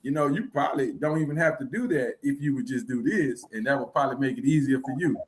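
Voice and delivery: mock polite advice. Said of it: "I'd be like".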